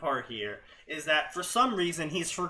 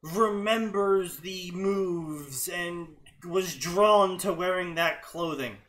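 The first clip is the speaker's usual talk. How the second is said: mock author excuse; slower than usual. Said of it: "be like".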